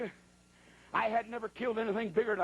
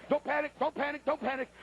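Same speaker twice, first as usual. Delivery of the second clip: high, rattled repetition; mock panic; 4 semitones higher than usual. Hunter to himself as bear charges, mock frantic. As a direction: badly reassure yourself in a raised voice.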